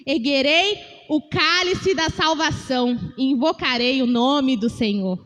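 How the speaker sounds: slow, solemn reading of the verse; scripture reading. Shown as a demonstration. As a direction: read it out slowly like scripture. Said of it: "Vou ler mais uma vez".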